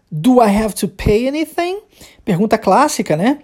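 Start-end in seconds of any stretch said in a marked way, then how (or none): 0.1-1.8 rising question tune, climbing through "pay anything"; question intonation. Shown as a demonstration. Student asks teacher about paying, in rising question intonation. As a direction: let "anything" lift high at the end. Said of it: "a gente sobe no final".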